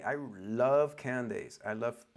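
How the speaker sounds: a light country twang slipping in; slight southern accent. Real, not acted. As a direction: let a little Southern accent creep in. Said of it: "my southern accent".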